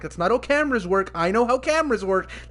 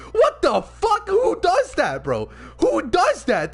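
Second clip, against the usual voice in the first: loud, high-pitched indignant outburst; real outrage; 11 semitones higher, 4 dB louder, slower than usual. Real, not acted. Fan ranting at a character's betrayal, outraged. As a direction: demand an answer in disbelief and outrage.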